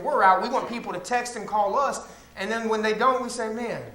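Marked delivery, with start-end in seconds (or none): 3.5-3.8 softer, self-pitying grumble; mild sulky complaint. Acted. Churchgoer feeling forgotten after missing service, mock sulky. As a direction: complain quietly, lightly mocking a neglected member. Acting sulking member who got no calls.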